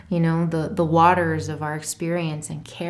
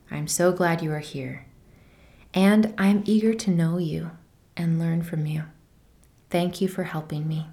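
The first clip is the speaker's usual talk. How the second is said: tender reading. Acted. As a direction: read it gently, like to a scared child. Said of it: "I'll read this little love letter".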